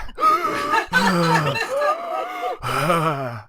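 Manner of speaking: big laughing sigh; a loud sigh that turns into a laugh. Real, not acted. Joke about being winded.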